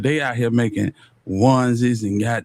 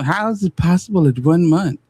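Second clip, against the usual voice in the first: mocking quote; 4 semitones higher than usual. Mocking the boyfriend's texted question.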